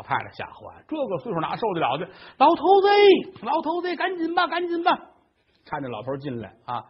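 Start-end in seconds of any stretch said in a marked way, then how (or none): 2.4-4.9 put-on high-pitched old woman calling her husband; much higher, anxious calling; alarmed old wife. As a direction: call him urgently in a high old-lady voice.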